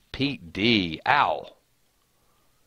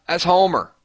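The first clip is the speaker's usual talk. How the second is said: mock tip-off; 9 semitones higher, 4 dB louder than usual. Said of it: "why can't you say".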